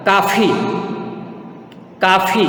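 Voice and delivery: काफ़ी as an isolated model word with f; nukta pronunciation. Shown as a demonstration. Teacher models nukta words for students, काफ़ी with f. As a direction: say काफ़ी with an f, "kaafee". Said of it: "मैं कैसे करता हूँ नुक्ता वाले शब्दों का उच्चारण".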